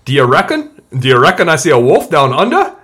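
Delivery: a put-on Australian accent, lightly done. Shown as a demonstration. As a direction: say it like an Aussie would. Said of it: "That's my Australian accent".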